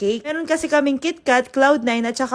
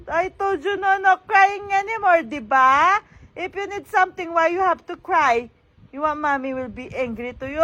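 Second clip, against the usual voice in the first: high, sing-song telling-off; 4 semitones higher than usual. Real, not acted. Mother tells her crying baby to sleep, high baby-talk scolding. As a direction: chide a little one in a high voice.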